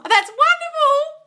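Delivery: drawn-out thrilled praise; slow gush. Real, not acted. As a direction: savour the praise. Gushing praise to viewer.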